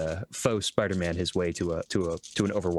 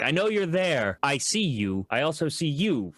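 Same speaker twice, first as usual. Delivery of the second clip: lightly acted, higher-pitched call to someone hidden; calling them out; 6 semitones higher than usual. Dirham calls out whoever is hiding, mildly raised challenge. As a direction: let them know they're spotted, pitched up. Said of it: "pretty much call them out".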